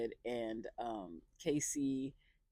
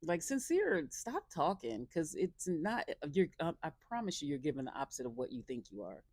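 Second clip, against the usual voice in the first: exasperated; 3 semitones higher than usual. Real, not acted. Exasperated address to Sincere.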